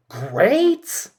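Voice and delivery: high, rising disbelief; mock disbelief at praise, pitched high; incredulous great. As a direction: toss it up as a mocking question. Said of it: "she's like".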